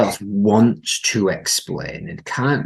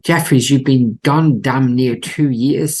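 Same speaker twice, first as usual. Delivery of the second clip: higher, louder, slow; Gordon Cole voice; 5 semitones higher, 4 dB louder, slower than usual. Acted. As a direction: shout it slowly like a deaf old man. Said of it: "says Cole".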